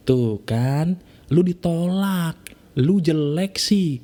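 slow, taunting self-put-down; mocking inner voice. Your own mind taunting you after rejection, slow and mocking. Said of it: "pikiran kamu untuk mengatakan".

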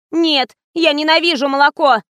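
high, plaintive refusal; whiny protest. A narrator's reading. Fatima telling the director she hates milk, high whine. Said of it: "плаксиво протянула Фатима".

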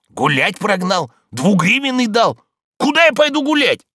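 loud, high, rising indignation; baffled complaint. A narrator's reading. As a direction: build in pitch and volume as the bafflement grows. Baffled servant complains outside the gate. (громкое недоумение, по нарастающей)

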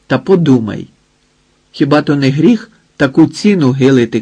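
loud, scornful scolding. Acted. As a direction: berate him, keep it loud. Hotsyk scolds the old man.

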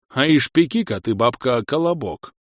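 put-on lisping old grumbler, a touch whiny; toothless old man. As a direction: whine for bread with no teeth. Old man asks for kolobok. (шамкающий старик)

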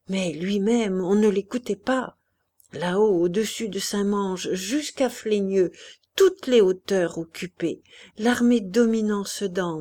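a delirious officer replaying the battle, halting; jerky voice. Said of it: "d'une voix saccadée".

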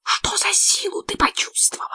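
high urgent whisper; secretive whisper to Alphonsine. A narrator's reading. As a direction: lean in and whisper the question. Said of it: "зашептала".

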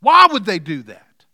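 a loud, pained cry of "Why?"; anguished why. Retold or imitated. Pastor voices his own anguish to the congregation, loud cry. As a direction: cry out the question in hurt. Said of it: "I ask that question".

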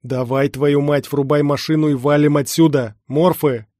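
loud, urgent order; Everest, nervous. Acted. Comrade warns hero of morphs, nervous shouting. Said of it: "голос Эвереста звучал нервно".

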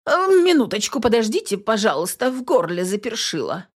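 high ordinary voice, dropped act; normal human voice. A narrator's reading. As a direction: drop the spooky act. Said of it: "Её голос меняется, становясь похожим на человеческий".

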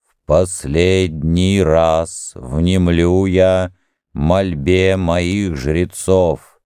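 slow, otherworldly divine voice; unearthly voice. Acted. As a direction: speak as a distant god. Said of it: "ответил неземной голос из храма".

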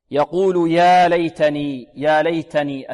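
ليتني with a puff of air on the t; breathed ta. Shown as a demonstration. Teacher shows the whispered ta, airy t. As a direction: chant يا ليتني, releasing breath on the ت. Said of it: "التاء هنا مهموسة".

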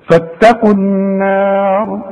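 slow فاتقوا النار with a heavy ra only; recited phrase. Shown as a demonstration. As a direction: recite فاتقوا النار slowly, light nun. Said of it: "الراء هي المفخمة".

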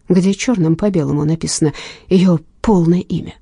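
ordinary delivery, nothing marked

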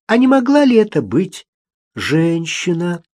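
soft and gentle. A narrator's reading. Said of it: "мягкий и нежный, как шёлк".

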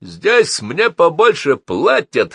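high, loud, slow boast; drawn-out crowing shout; boastful shout. A narrator's reading. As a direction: shout it back as a brag. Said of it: "хвастливо крикнул Фрэнки".

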